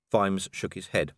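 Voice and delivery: ordinary delivery, nothing marked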